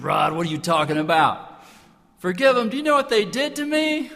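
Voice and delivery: hammed-up disbelief at the idea; indignant outburst. Telling his friend on the phone, mock outraged. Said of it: "And I said".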